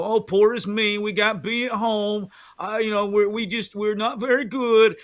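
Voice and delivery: hammed-up woe-is-me voice; mock pouting whine. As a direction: whine it like a sulking team. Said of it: "pout and".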